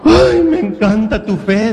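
high, slow imitation of a moved lady; tearful admiration. Weeping lady praising his faith, imitated tearful admiration. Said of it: "la señora estaba llorando".

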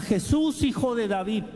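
high pleading call to Jesus; mock-shouted plea; retold cry. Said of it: "le grita".

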